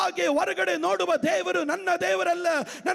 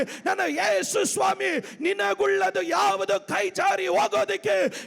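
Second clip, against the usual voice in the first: proclaiming shout; 2 semitones higher than usual. Real, not acted. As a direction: shout the promise out to everyone. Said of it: "ಕೂಗಿ ಹೇಳ್ತಾ ಇದ್ದೇನೆ".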